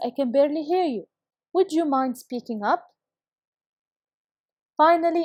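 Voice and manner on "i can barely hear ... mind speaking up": normal talking voice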